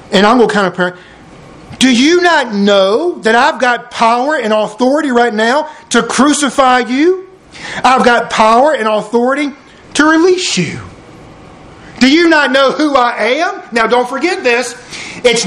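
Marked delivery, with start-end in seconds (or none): 1.8-13.6 higher-pitched, deliberate assertion of authority; mildly acted indignant official pulling rank; imperious Pilate. Pilate warns Jesus of his power, imperious.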